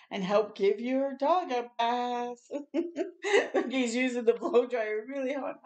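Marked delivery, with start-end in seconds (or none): 2.5-5.6 laughing. Real, not acted. Amused by the picture.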